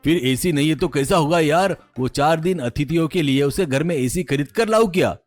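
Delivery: a touch of exasperation in the questioning; mildly annoyed boss challenging his assistant; mildly irritated. Acted. President doubting assistant's plan for guests, mildly irritated. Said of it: "ऐसा चिढ़ते हुए कहता है".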